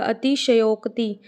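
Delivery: slow अतिशयोक्ति with full "sha-yok"; full "sha" demo. Shown as a demonstration. Teacher shows the full sha, slow अतिशयोक्ति. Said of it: "श पूरा आएगा".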